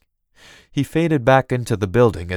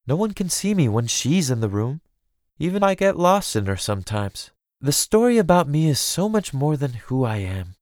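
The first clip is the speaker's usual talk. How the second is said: higher, earnest lament; a touch of bitterness about her public self; troubled princess; 5 semitones higher than usual. Acted.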